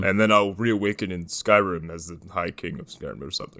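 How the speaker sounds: low-pitched mock warrior voice; Norm. Riffing on the gnome warrior's afterlife, low imitation. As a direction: keep up the low put-on voice. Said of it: "he talked like Norm".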